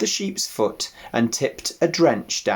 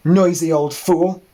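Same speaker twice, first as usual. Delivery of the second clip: louder scornful dog; irritated growl; 7 semitones higher, 6 dB louder than usual. Acted. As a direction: scold the ewe under her breath.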